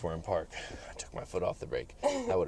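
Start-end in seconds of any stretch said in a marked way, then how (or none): 0.9-2.0 whispered, softer admission; hushed relief. Real, not acted. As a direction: breathe it out in relief.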